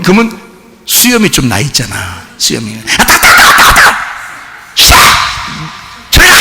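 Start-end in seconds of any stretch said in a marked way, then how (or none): 3.0-6.3 put-on high squeaky yelps of a child; short, squealed mock protest. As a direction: mimic a kid fending off a scratchy kiss. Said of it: "막 이래요".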